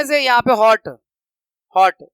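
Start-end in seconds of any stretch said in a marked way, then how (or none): 1.8-2.0 हॉट with a short o; short vowel. Shown as a demonstration. Teacher showing pupils a short vowel, said short. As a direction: keep the vowel in हॉट brief. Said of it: "ये short vowel था".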